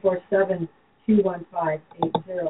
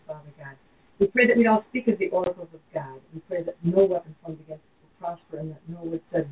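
earnest, measured prayer voice. Acted. Leads a radio prayer.

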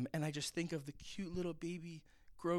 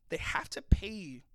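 whisper; 4 dB louder than usual. Real, not acted.

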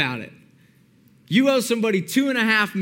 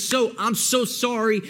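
mild mock pleading, drawn out slowly; begging. Servant begging the king over his debt, mildly pleading. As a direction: lightly act out a slow, apologetic plea. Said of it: "The servant begs and begs".

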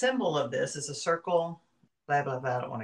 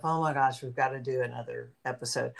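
low-key, weary little complaint; reluctant; 3 semitones lower, 5 dB quieter than usual. Acted. Co-host imagining dreading another recording, reluctant. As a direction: grumble it softly, like facing a chore. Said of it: "I never think to myself".

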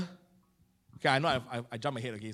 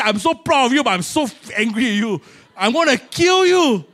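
half-proud, half-furious telling-off; mock anger; 3 semitones higher, 4 dB louder than usual. Father to the daughter who came home alone, in mock anger. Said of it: "I was so angry".

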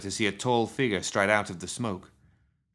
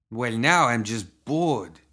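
bored; 2 semitones higher, 4 dB louder, much slower than usual. Acted. Gunman left with nobody to shoot.

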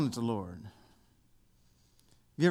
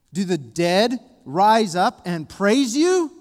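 slow, loud, raised-pitch challenge to God; slow reading; 5 semitones higher, 9 dB louder than usual. Real, not acted. Preacher voices the psalmist questioning God, slow and loud. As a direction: cry the question out slowly, climbing in pitch. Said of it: "I want to read them slow".

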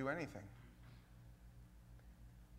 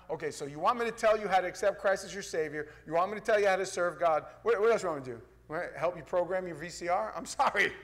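louder, mounting sarcastic questions; mock exasperation; 3 semitones higher, 5 dB louder, faster than usual. Preacher asked how to serve God, mock-exasperated. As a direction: pile up the demands with hammed-up impatience.

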